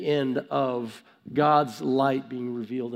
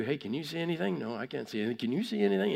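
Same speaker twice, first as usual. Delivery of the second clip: hushed; 6 dB quieter, much faster than usual. Retold or imitated. Kids in pitch-dark mine.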